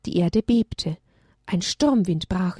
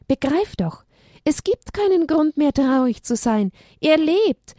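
joyful; 6 semitones higher than usual. Acted. Maika cheers up Haberle.

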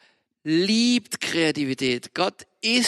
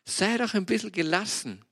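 gentle self-talk. Retold or imitated. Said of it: "Und sag".

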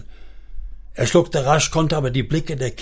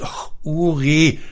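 slow, higher-pitched tearful lament; helpless weeping; 4 semitones higher, slower than usual. A narrator's reading. Wife breaking down before her husband, helpless weeping. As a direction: stretch his name out in helpless grief. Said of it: "sie weinte hilflos".

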